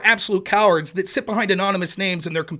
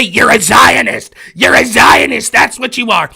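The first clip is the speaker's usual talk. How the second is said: a hint of a sneering critic; mocking the critic; 5 dB louder than usual. Streamer mocking what the critic says. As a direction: parrot him with contempt. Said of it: "this fucking sack of shit will say".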